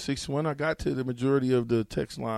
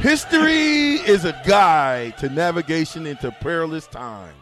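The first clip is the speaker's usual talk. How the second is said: loud proclamation; 3 semitones higher, 4 dB louder than usual. Pretend. Loud proclamation over music.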